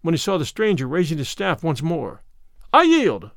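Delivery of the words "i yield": high, loud cry of surrender; raised, pleading-for-a-halt exclamation. A narrator's reading. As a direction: call out that you give in. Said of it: "cried Robin Hood".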